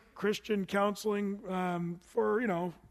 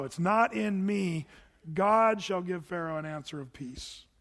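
humble reading. Shown as a demonstration. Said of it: "Very good".

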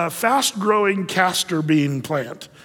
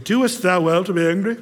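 King James phrasing. Shown as a demonstration. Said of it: "even the King James Version".

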